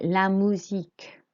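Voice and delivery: MUSIQUE with U as "oo"; French U sound. Shown as a demonstration. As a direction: model MUSIQUE for learners, no English "you" glide. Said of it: "the U is an U sound".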